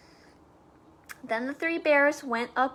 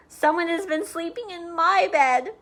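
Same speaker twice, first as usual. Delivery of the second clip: put-on higher baby bear voice; wee small voice; 5 semitones higher, 4 dB louder than usual. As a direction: lift it up like a little cub. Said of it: "in his wee small voice".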